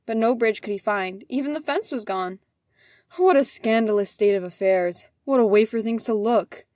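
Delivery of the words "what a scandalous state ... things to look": loud scandalized cry; indignant outburst. Acted. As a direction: rail at the state of things. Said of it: "he said".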